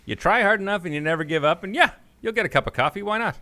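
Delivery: a falsetto self-cheer, mocking; high mock inner voice. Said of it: "I just thought".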